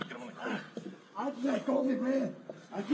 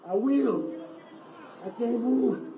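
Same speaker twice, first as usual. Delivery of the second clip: loud, strained pleas; desperate shouting; 3 dB louder than usual. Real, not acted. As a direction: shout through real pain. Man pleading loudly while restrained.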